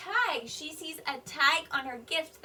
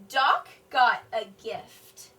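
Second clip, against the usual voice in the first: slow, louder, falling; slow decoding read; 3 semitones lower, 6 dB louder, much slower than usual. Shown as a demonstration. Teacher reading aloud to children, slow and clear. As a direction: read slowly word by word. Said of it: "she's asking a question".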